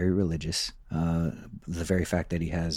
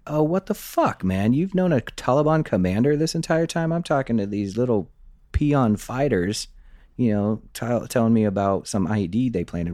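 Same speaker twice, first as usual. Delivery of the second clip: retold angry outburst, much higher and louder; indignant what-the-hell rant, pitched up; mad; 5 semitones higher, 4 dB louder than usual. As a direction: replay the frustration at the informant, high and loud. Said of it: "I was actually kinda mad".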